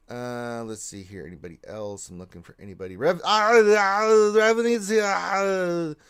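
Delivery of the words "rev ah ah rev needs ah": high, loud drawn-out wail; hammed-up hollering between words; mock wailing. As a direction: cry out in exaggerated distress. Mock wailing while searching for name.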